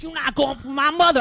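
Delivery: high-pitched, hammed-up protest on a mother's behalf; retold outburst. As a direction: act out jumping to your mother's defence. Acting out own outburst at Cammy.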